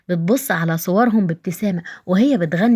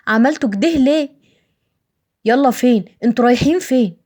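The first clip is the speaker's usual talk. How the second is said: high, anxious cry to the police; a frightened plea as loved ones are taken away; pleading in alarm; 5 semitones higher, 4 dB louder than usual. Acted. Family pleading as fathers are arrested. (توسل مذعور بصوت عالي)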